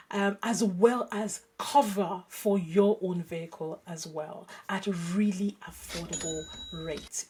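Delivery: podcast ad read with measured emphasis; host-read advert; sponsor read. Real, not acted. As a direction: present the sponsor message to listeners, stressing key words. Reads a podcast sponsor message.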